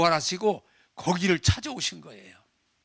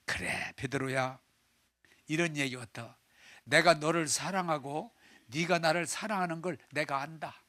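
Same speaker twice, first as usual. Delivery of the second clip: tender reassurance; 3 semitones lower, 3 dB quieter than usual. Acted. Jesus answers Peter tenderly.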